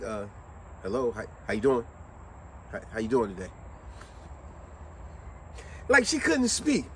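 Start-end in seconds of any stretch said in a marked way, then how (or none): 0.0-3.5 low, hesitant retry, trailing softer; tentative greeting. Retold or imitated. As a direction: imitate a cashier cautiously greeting someone unresponsive. Cashier retrying greeting after no answer.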